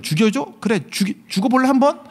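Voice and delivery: mock threat. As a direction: playfully dare them, pitch climbing. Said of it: "그럼 나 같으면 죽여버려". (장난스럽게 으름장 놓듯)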